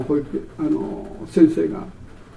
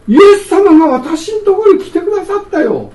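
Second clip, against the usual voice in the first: higher, louder, delighted announcement; joyful exclamation; 11 semitones higher, 6 dB louder than usual. Acted. Preacher proclaiming to the congregation that Jesus came, joyful and raised. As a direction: proclaim it like wonderful news.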